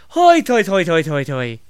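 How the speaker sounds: bouncy jolly chant, falling away step by step; Irish Santa laugh. Acted. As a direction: belt the first syllable, then let it cascade down. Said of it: "the Irish Santa will go".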